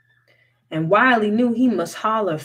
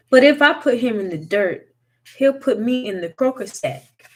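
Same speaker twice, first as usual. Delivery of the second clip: worried protest; 5 semitones higher, 6 dB louder than usual. A narrator's reading. Wiley protesting to mama.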